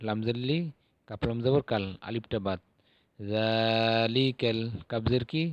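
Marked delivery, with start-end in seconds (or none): 3.2-4.6 জালিকাল read slowly with the long alif drawn out; slow Arabic recitation. Shown as a demonstration. Teacher modelling Quranic reading slowly. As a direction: stretch the vowel of জালিকাল gently. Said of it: "এখানে নরম করে এক আলিফ টান".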